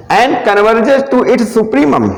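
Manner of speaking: very slow, word by word for note taking; slow dictation. Shown as a demonstration. Teacher dictating the theorem statement to students, very slow. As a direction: read the theorem out slowly so they can copy it.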